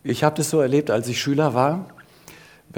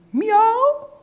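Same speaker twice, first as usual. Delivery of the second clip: high, loud meow of a cat; 7 dB louder than usual. A narrator's reading. Cat on the lectern meowing at Elisabeth, high meow. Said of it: "hat gesagt".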